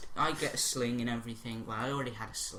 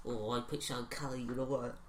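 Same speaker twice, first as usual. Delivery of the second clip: dinner lady voice; 4 dB louder than usual. Retold or imitated. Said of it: "she was like".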